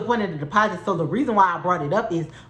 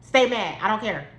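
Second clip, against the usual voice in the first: retold yell; 4 semitones higher than usual. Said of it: "I'm yelling out the window".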